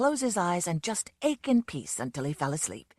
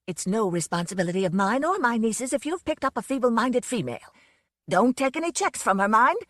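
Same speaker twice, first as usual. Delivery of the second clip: louder, indignant phone tirade; shouting; 3 semitones higher, 4 dB louder than usual. Acted. Aunt Elizabeth shouting at the police on the telephone, angry and loud. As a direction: scold the police down the line. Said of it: "Aunt Elizabeth was shouting".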